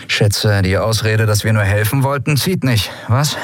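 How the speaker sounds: wry captive pirate; Sephiron, cocky prisoner. Acted. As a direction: tease the officer with mock innocence.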